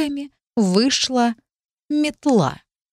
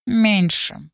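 nasal cat voice. Acted. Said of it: "прогнусавил кот".

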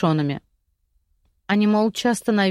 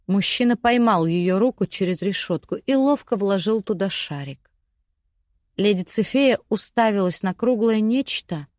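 plain reading voice

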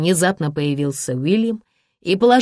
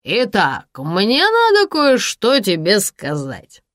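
tipsy, slow and loud; swaying drunk man gloating; 4 semitones higher, 4 dB louder, slower than usual. Acted. Drunk Sasha voice.

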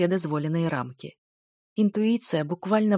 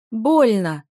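louder, hammed-up cry of pain; pained groan; 4 semitones higher, 7 dB louder than usual. Dick faking injury to frame the hero, groaning. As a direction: overplay the hurt. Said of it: "застонал этот самый Дик".

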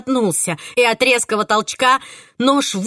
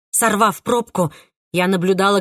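usual speaking voice

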